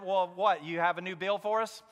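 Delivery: dry, mocking question; a touch of sarcasm about the bills; retold sarcasm. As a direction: needle her a little, lightly sarcastic. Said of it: "in my sarcasm".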